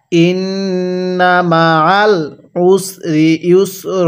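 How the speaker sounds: stretched syllables, measured Arabic reading; slow recitation. Shown as a demonstration. Teacher models the word slowly for learners to copy. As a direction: draw out ওয়া র ফা না evenly. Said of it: "কিভাবে পড়ব?".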